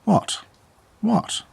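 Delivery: high squeaky what, what; mock surprise. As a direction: feign innocence, way up high. Mock-innocent reply to friends.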